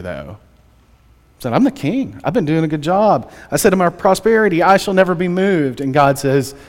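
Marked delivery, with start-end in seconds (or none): 1.5-5.8 mildly cocky, voice a little raised; cocky boast. Acted. David boasting of his prosperity, a little cocky. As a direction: lightly play a self-satisfied king. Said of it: "He got a little cocky here".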